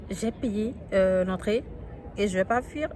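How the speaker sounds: anxious disbelief, voice climbing; agitated and alarmed. Real, not acted. Après un coup de feu entendu. (voix agitée et inquiète)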